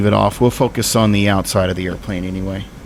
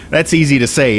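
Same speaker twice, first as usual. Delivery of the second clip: words through real laughter, louder; laughing; 6 semitones higher, 6 dB louder than usual. Real, not acted. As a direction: laugh while saying it. Laughing at own exaggeration.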